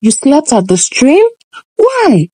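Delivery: a hint of an exasperated mother; scolding mother. Mother scolding Nala for coming back without water, mild. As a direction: nag her like a fed-up parent, lightly voiced.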